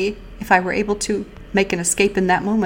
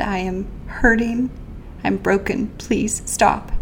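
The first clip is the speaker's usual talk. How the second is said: retold pleading; 2 semitones higher, slower than usual. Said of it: "I pleaded and begged".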